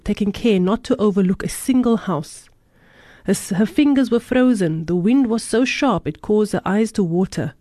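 calm storytelling read aloud; story narration. A narrator's reading. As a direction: read it like a parable. Reads a moral story aloud.

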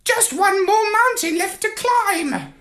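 high parrot voice, tired sigh; a bird worn out after coding; weary parrot. A narrator's reading. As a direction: parrot flopped on his keyboard, high and weary. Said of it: "and sighed".

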